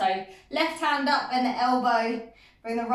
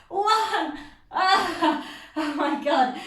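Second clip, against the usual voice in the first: laughing; 3 semitones higher, much slower than usual. Real, not acted. Laughing through final count.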